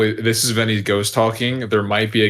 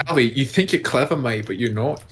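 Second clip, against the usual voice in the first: put-on Australian accent; 2 semitones higher than usual. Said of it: "Trying to do an Australian accent there".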